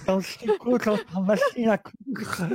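imitating Solène. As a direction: parody her drawn-out line.

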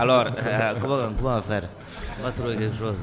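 light put-on Marseille accent; a touch of Marseille accent on request. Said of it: "je vais prendre l'accent du coin".

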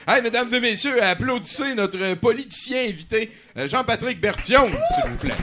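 loud, high host introduction; grand entrance announcement. Acted. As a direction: announce the guest like a showman.

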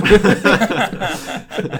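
big amused laugh; loud laugh. Real, not acted. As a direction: burst of high laughter. Laughing at own story.

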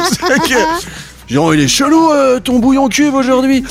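high amused voice of a baffled buyer; puzzled customer. Retold or imitated. Imagined duped buyer complaining.

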